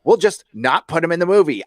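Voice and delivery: lampoon a self-satisfied filmmaker; mocking the director. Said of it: "and he's all".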